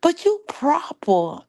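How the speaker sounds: high, loud, incredulous aunt; aunt's objection. Retold or imitated. Aunt objecting to her niece's way of talking, high and incredulous. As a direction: let the aunt protest in disbelief. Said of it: "she was like".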